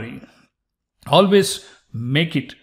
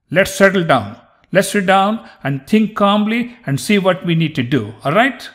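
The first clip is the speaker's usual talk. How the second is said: raised, insistent calming-down plea; mock placating; 4 semitones higher, 4 dB louder than usual. Teacher acting out a confrontation, mock placating. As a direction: talk down a pushy opponent, playfully. Playful acted warning about getting physical.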